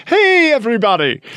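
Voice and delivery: put-on high, bright Scottish-accented hey everybody; Scottish streamer greeting. Imitating a Scottish streamer's cheerful opener. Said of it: "he starts off his podcast by saying".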